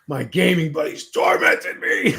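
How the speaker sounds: slow, laughing through the words. Real, not acted. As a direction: giggle it out slowly. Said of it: "laughing through the line".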